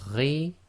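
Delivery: "Ri" gargled from the throat; rough throaty gh sound; Arabic ghain. Shown as a demonstration. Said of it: "that's from the th- throat".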